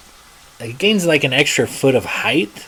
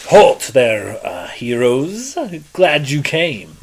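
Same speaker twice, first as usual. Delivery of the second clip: loud shout; 3 semitones higher, slower than usual. Acted. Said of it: "you hear a loud voice, uh, shout to you".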